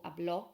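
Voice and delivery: "habló" with a stressed final o; stress on end syllable. Shown as a demonstration. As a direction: demonstrate "habló" as ab-LO. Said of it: "puts the stress on the end syllable".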